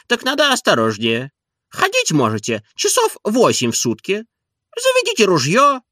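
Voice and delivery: lightly voiced doctor prescribing his regimen; doctor's advice. A narrator's reading.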